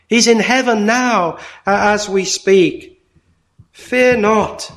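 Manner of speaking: measured Easter sermon delivery; preaching. Acted. Preacher addressing the Easter congregation, earnest. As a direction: proclaim the risen Christ to the congregation.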